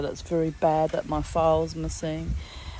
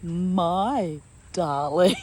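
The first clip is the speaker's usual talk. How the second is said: teasing drawl; 4 dB louder, much slower than usual. Retold or imitated. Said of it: "he said".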